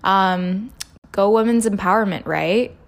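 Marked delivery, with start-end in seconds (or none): 1.1-2.7 sarcastic cheer. Real, not acted. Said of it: "that sounded sarcastic".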